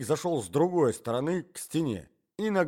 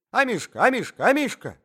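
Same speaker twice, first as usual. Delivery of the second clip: high, loud calls to a pet; eager high-pitched calling; 10 semitones higher, 9 dB louder than usual. A narrator's reading. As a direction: call the dog loudly, pitched high. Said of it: "кричал старичок, щёлкая пальцами".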